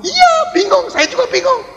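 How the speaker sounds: hammed-up puzzled agreement; mock baffled reply. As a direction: play up the confusion in a squeaky voice. Acted reply in a quoted exchange.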